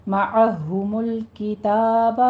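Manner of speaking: مَعَهُمُ الْكِتَابَ with the لام stopped, not ہُمُلُ; careful tajweed reading; correct stop. Shown as a demonstration. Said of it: "ہُمُلُ نہیں کہنا،".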